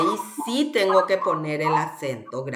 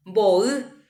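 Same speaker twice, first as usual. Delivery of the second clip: MBO'Y stretched and rising on the final Y; greater intensity on stress. Shown as a demonstration. Teacher asks where the intensity falls, stressed demonstration. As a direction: lean hard on the Y of MBO'Y. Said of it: "Dónde pronuncio con mayor intensidad".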